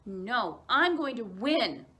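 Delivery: stubborn insistence. Acted. Stubborn child refuses.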